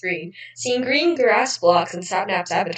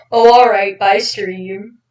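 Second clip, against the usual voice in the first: loud, cheery call of bye stream; yelled goodbye; 7 dB louder, slower than usual. Acted. Sapnap yelling goodbye to viewers, loud. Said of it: "Sapnap yells".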